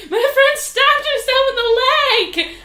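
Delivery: high, loud, slow shocked outburst; excited exclamation. Retold or imitated. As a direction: blurt it out in wide-eyed alarm. Quoting friend's shocked announcement.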